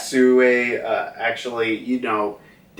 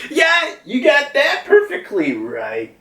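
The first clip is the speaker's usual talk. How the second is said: much higher, eager voice for Yamato; eager agreement; 14 semitones higher than usual. Retold or imitated. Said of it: "we got Yamato being like".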